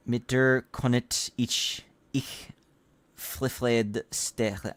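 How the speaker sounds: slow, stumbling attempt at German words; halting German reading. Streamer reading a German letter aloud, slow and stumbling. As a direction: sound out the German line haltingly, giving up. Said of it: "not gonna try to read this in German accent".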